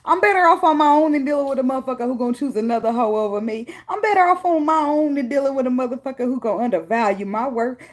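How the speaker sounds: high, loud indignant declaration; defiant rebuff. Acted. Somebody rejecting the lover who undervalued them, loud defiance. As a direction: push it out loud, warding them off.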